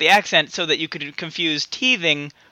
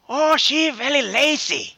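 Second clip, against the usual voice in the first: mock Asian accent; 7 semitones higher, slower than usual.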